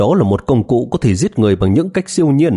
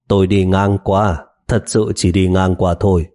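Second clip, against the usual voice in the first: open and friendly. Acted. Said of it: "đáp với vẻ thân thiện".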